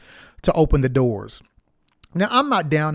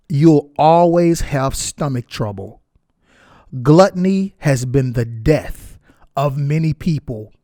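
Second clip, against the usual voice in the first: slow, solemn reading of scripture; measured scripture reading to the congregation. Acted. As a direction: read the verses slowly, like a sermon. Reads scripture aloud.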